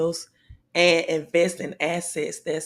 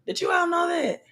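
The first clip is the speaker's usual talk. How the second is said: excited shout; 12 semitones higher, faster than usual. Real, not acted. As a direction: call it out to the whole stream, amazed. Repeats question to live viewers.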